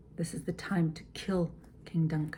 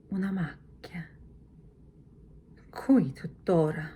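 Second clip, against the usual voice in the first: confused whisper. Shown as a demonstration. Lady Macbeth whispering over the blood spot. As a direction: murmur it, baffled by the spot. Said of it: "So it would be".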